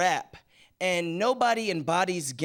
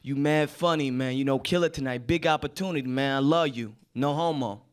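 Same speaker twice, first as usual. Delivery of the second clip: best friend impression; 4 semitones lower than usual. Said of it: "He was like".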